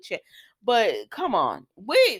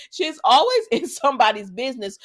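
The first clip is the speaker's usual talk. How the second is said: laughing; 5 semitones higher, 5 dB louder than usual. Real, not acted. Mocking Sharon while laughing.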